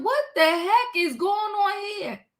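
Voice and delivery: retold disbelief. Host reacting to the awkward hug scene, mild mock incredulity. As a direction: ask it in mock astonishment. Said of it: "I said".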